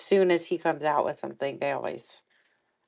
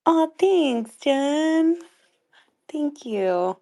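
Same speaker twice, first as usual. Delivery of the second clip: squealed thanks; 11 semitones higher, much slower than usual. Real, not acted. Laughing high thanks.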